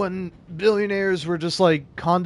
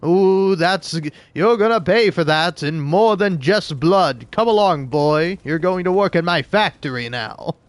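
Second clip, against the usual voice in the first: Scrooge; 4 semitones higher than usual. Retold or imitated. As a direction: scold the boy like a pompous tycoon. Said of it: "I'd be like".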